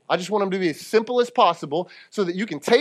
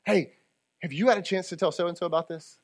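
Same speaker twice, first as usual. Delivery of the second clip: softer; 6 dB quieter than usual. Shown as a demonstration. Preacher repeating the gentler option for grace-filled people, softly. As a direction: bring the volume down and ask gently.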